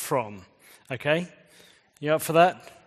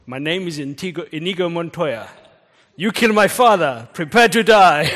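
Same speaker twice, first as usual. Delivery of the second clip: put-on Spanish accent; 3 semitones higher, 8 dB louder than usual. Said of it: "You kind of have to, though, with this one".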